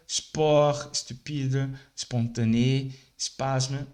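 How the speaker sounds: sport, estúpido, espontâneo, espasmo with the first vowel cut; each word begins right on the S; start on S. Shown as a demonstration. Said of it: "Você tem que começar com S". (palavras começando direto com S)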